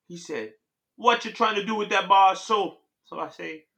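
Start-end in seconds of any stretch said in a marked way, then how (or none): 0.9-2.8 put-on raised Jamaican-accented Grim Reaper; lightly voiced Jamaican challenge. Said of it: "What accent was that?".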